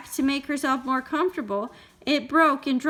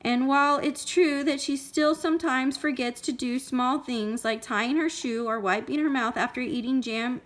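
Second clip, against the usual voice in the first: put-on measured storytelling for a small child; story read-aloud. A narrator's reading. Parent reading Goldilocks to a child, expressive storytelling.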